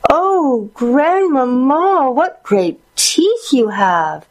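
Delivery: very high, drawn-out squeal; high swooping girlish squeal; squealing little girl. A narrator's reading. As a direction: squeal slowly in childlike amazement. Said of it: "she squealed".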